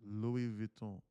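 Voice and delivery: put-on suave-name act, lightly French accented; switched-up French voice. Telling a woman your name, switched-up light French accent. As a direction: roll out the names in mock French. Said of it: "You better switch up your voice".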